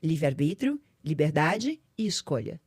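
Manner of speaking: lightly voiced God answering her; God speaking. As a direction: explain it like a loving father. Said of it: "É como se ele me falasse".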